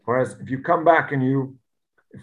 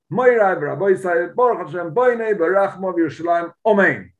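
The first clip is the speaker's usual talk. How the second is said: mildly raised, proclaiming voice; formal loud announcement; 3 semitones higher than usual. Retold or imitated. Teacher acting out the blessing announced to the workers, formal and loud. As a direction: announce it formally, ending on an emphatic Amen. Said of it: "He formally announced".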